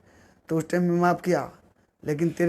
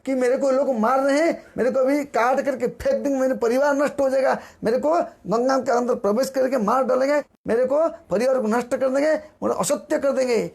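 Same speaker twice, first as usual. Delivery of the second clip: mildly urgent, higher-pitched retold pleading; retold distressed plea; 4 semitones higher than usual. Devotee calling to God in mortal danger, mildly acted distress. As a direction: recount a panicked call for help, lightly acted. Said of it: "महासंकट स्थिति में रहते हुए पुकारा था".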